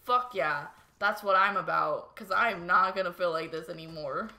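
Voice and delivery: loud, determined retold reply; emphatic agreement. Telling boyfriend yes to the shower idea, loud and emphatic. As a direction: jump on the idea with force.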